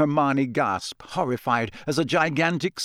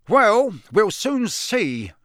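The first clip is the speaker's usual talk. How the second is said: growling; 9 semitones higher, 5 dB louder, much slower than usual. Acted. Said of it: "growled Mister Diggory".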